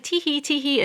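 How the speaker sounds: high, silly mock giggle; a hammed-up girly tee hee. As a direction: tease the girlish giggle. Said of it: "she's like".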